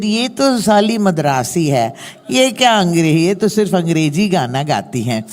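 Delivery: fast mock grumble in Hindi; imitating dismissive critics. Singer mimicking what critics said of her, dismissive. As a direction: rattle off the critics' put-down. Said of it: "They said".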